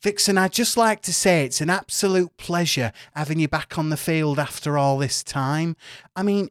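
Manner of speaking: lightly voiced eager northern reporter. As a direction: GM voicing a keen northern journalist. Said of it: "but she goes".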